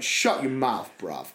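Cockney retort, dropping low on "bruv"; curt Cockney put-down, imitated; Cockney John. Driver telling his passenger off, Cockney accent. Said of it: "That's the Cockney John we wanted".

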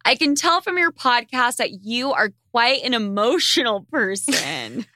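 ordinary talk

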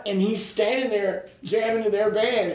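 usual speaking voice

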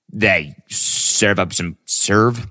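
slow, faltering attempt at an Aussie accent; attempted Australian accent. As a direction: try it in Australian and get stuck on "serve". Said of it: "Can't say that Australian".

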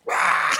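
wordless mock roar; screamed "rah" in imitation; short wild yell; imitated scream. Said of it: "they just scream at these men".

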